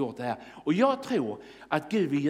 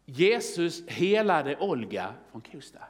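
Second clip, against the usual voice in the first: slow, measured reading of a headline; slower than usual. Acted. Preacher reading the newspaper placard, slow headline reading. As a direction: read it out slowly, word by word. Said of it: "vad är det som står här på löpsedlarna".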